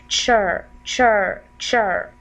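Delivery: "chur" repeated as a separate syllable; "chur", one blended syllable, falling; demonstrated chur sound. Shown as a demonstration. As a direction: say each "chur" alone, slightly stretched. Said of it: "this is how it will be sounded".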